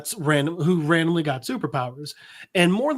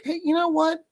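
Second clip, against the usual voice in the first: dad retorting; 10 semitones higher than usual. Acted. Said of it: "his dad's like".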